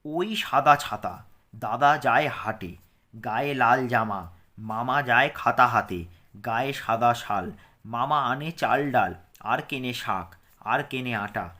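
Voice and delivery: rhyme read again. Shown as a demonstration. Teacher rereads the rhyme to pupils for pronunciation. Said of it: "উচ্চারণটা ভালো করে শুনে নাও".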